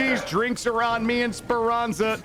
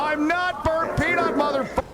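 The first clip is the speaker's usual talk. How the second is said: mock-outraged protest; 6 semitones higher than usual. Gamer told he sounds like someone, mock outrage.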